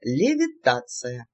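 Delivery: низкий, медленный голос мага, слегка сыгранный; произнеси заклинание неспешно, как маг. A narrator's reading. Маг Велий творит заклинание. (мягко озвученный маг)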